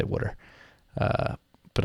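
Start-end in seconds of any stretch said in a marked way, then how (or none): 0.0-0.4 water said as "wooder"; short "wood" vowel in water; Philadelphia pronunciation. Shown as a demonstration. Host fond of Philly speakers, water pronounced "wooder". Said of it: "I love people say water".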